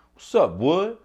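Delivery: high, loud callout to a fellow Wood; a challenging shout of "what's up"; calling out. Retold or imitated. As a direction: hype up the crew, ready to ride. The Woods calling out again.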